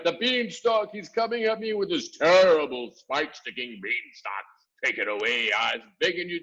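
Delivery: high, loud pleading wail; begging for mercy. A narrator's reading. Giant pleading with Jack for mercy. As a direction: plead desperately. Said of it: "cried the flesh lump eater".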